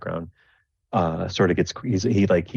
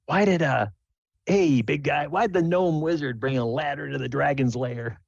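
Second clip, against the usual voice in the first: higher, setting up a punchline; jester telling joke; 7 semitones higher than usual. Acted. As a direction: tease the big guy with a riddle.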